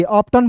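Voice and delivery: "ऑप्टन" with a hard T; beginners' misreading. Shown as a demonstration. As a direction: read "ऑप्टन" as spelt, ending in "tan". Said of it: "बहुत लोग पढ़ लेता है".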